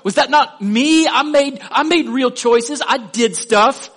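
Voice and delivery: high, loud, whiny "but I worked hard" protest; protesting objector. Pretend. Preacher voicing a churchgoer who insists his own effort counts, high and loud whiny protest. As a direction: push back like a self-righteous believer insisting on credit. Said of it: "And if you say".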